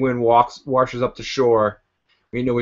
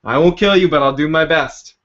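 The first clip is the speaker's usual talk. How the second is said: emphatic retold line; 4 semitones higher, 5 dB louder than usual. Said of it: "I thought this was the best line".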